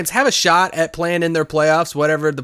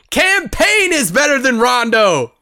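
higher, louder, slow mock boast; mock bold claim; 9 semitones higher, 4 dB louder, slower than usual. Host trolling his cohost about Rondo, hammed-up boast. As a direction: overstate it for laughs.

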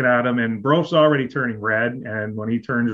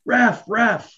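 high, insistent mock call; repeated mock shout at the ref; imitating the coach calling; 10 semitones higher than usual. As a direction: holler for the ref again, much higher. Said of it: "you can keep hearing them".

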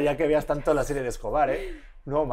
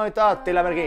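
higher, singsong fake Italian; mock Italian; 4 semitones higher than usual. Showing that Italian is sexy, mock Italian accent. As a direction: parody Italian sweet talk in gibberish. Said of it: "el italiano".

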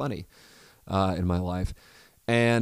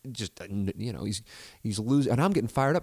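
ordinary delivery

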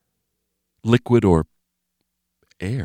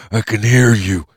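menacing Jeff; 3 semitones higher, 5 dB louder than usual. Acted.

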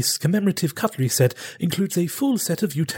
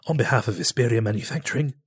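lightly voiced TV pitchman; home shopping host; 2 semitones higher than usual. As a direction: sell the knife set like late-night TV. Continues infomercial pitch.

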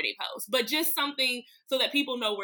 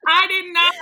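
loud, high-pitched denial; emphatic protest; 8 semitones higher, 11 dB louder than usual. Real, not acted.

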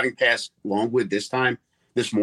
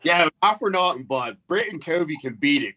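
reporter voice; 4 semitones higher than usual. Pretend. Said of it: "Let's hear it".

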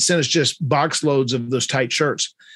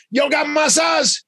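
much higher, slow, drawn-out plea; eager request; 12 semitones higher, slower than usual. Retold or imitated. Michael asking the store for his size, high and drawn out. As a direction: stretch it out, eager to join in. Michael wants the same pants.

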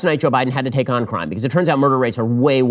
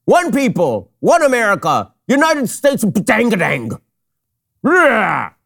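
much higher, louder hammed-up cheering; mock rally shout; 9 semitones higher, 4 dB louder, much slower than usual. Host parodying the president's ending, with a loud mock rally shout. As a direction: bellow it like a parody of a stump speech.

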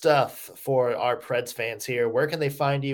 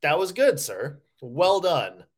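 higher, louder mock congratulation; mock approval; 4 semitones higher, 4 dB louder, slower than usual. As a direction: play at commending a worthy opponent. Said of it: "Then I'll be like".

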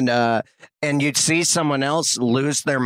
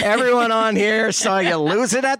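higher, teasing mock voice; mocking passenger; 5 semitones higher than usual. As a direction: taunt the seatmate, pitched up. Mocking seatmate on plane.

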